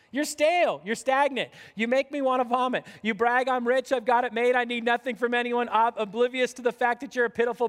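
forceful preacher's dressing-down; scathing rebuke. Acted. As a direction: lay into them, line after line. Acted rebuke from letter to Laodicea.

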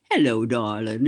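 a hint of a gruff Boston old-timer saying hello; low affectionate greeting in imitation; Tip O'Neill voice. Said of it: "in that wonderful voice of his".

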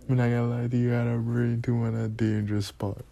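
mock Jamaican oncologist; Jamaican accent. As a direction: explain like a doctor in a put-on Jamaican accent. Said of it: "That's my favorite thing".

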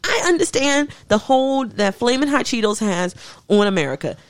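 a proclamation to the nation, rising into an outraged rant; mock public address. Addressing America about Flamin' Hot Cheeto sushi, a mock sermon. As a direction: lecture America grandly, building to outrage.

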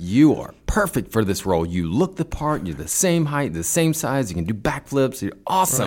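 high, overeager praise for the actor; gushing casting director. Retold or imitated. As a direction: pile on the compliments like a fawning producer. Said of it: "it's like".

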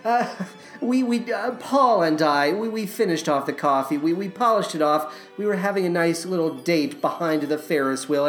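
sheepish confession. Acted. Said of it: "I hate to admit this".

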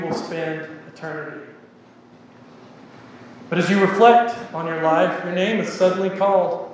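measured, dramatic story narration with weighty pauses; parable reading. A narrator's reading. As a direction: read it out solemnly, phrase by phrase. Reads a parable aloud.

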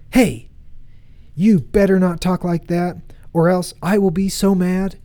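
firm, mildly indignant warning; confident little boy. Retold or imitated. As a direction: imitate a small child boldly warning older boys. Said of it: "so confidently, stick up to these older boys".

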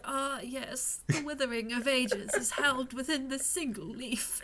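lightly voiced slow, wise elf; slow, solemn ancient elf. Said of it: "elf voice where he's just like".

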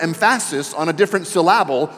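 "emphasis" and "syllable" stressed on their middle syllables; deliberately misplace the stress: em-PHA-sis, syl-LA-ble; wrong syllable stressed. Shown as a demonstration. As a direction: joke mispronunciation of "emphasis" and "syllable", middle syllable punched. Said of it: "I'm saying it like that, that it's wrong".

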